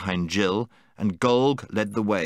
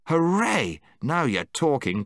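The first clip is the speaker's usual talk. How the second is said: cheer; 4 semitones higher than usual. Acted. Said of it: "cried Eustace".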